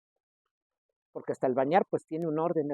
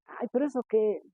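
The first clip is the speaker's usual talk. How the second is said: higher, mocking voice of a careless believer; dismissive scoff; 6 semitones higher than usual. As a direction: scoff it off like the rule is silly. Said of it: "Puede decir alguien". (voz burlona y desdeñosa, más aguda)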